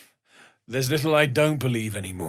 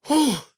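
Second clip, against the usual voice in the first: startled gasp; 5 dB louder than usual. Acted. Gasps at Karlach's heat.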